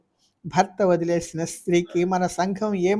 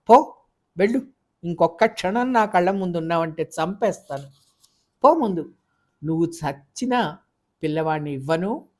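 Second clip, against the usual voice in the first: yelling threats, loud on పో ముందు; shouting; 3 dB louder than usual. Acted. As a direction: throw her out yelling. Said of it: "ఇంకా అరుస్తూనే బయటికి నెట్టేశాడు". (అరుస్తూ భార్యను బయటికి తోసేయడం)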